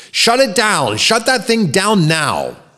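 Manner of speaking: very high-pitched shouted yell. Bernard, before a shocked auditorium, reacting to the robotic voice's message: yelled. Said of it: "Bernard yelled".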